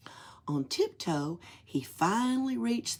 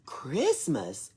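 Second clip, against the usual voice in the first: amazed whisper; 2 semitones lower than usual. Acted. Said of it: "Oscar's eyes widened".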